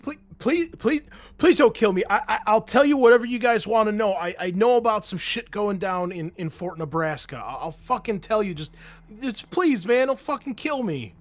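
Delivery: high, stammering, frantic begging; panicked pleading. Acted. Captive bargaining with armed marines, panicked pleading. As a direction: beg loudly for your life, tripping over words.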